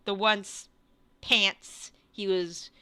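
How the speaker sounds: slow, halting scene setting; game master narration. Acted. Game master describing a near-dead figure to players, slow narration. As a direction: describe it slowly, with pauses between phrases.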